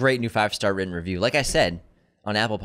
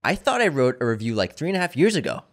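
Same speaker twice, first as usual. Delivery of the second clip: reading a review aloud. Shown as a demonstration. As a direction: read the fan letter out, savoring it. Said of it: "Here's his review".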